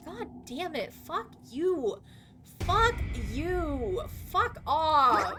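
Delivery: playful swears on demand; mock swearing. Streamer swears on demand for the chat's swear counter. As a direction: toss out swears for the chat. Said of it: "There's your swears".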